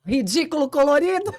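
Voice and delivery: hammed-up indignant rant, high and loud; venting to her co-host about the snub, mock angry; mock outrage. Angry retelling of insult.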